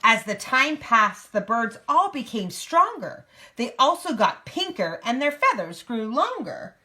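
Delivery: lively picture-book narration; reading to a child. A narrator's reading. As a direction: read it out in a clear storybook lilt.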